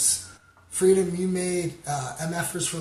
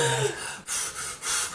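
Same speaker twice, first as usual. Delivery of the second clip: winded sigh. Real, not acted. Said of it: "I gotta learn to breathe".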